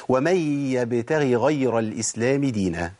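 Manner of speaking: slow recitation, separate ghayn in "يبتغي" and "غير"; two clear ghayns. Shown as a demonstration. Teacher reciting the repeated-ghayn example, two clear ghayns. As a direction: give each ghayn in "يبتغي غير" its place. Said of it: "نجيب مثال".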